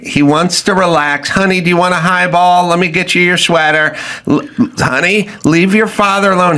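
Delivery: a hint of a cooing radio mom; mother shushing the kids for the father; fussing fifties mom. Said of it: "the mom would jump in and go".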